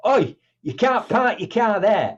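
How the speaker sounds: lightly hammed-up bossy guard; mock guard's scolding. Security guard rushes out scolding.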